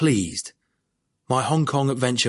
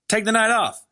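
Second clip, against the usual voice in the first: gently reassuring, higher voice; calm him down kindly; 10 semitones higher than usual. A narrator's reading. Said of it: "he said reassuringly".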